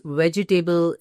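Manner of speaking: "vegetable" in four beats, ve-ji-tay-ble; common mispronunciation. Retold or imitated. Teacher quoting people in India, four-beat "vegetable". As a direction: sound out the "table" in "vegetable". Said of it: "Very often I hear people saying this".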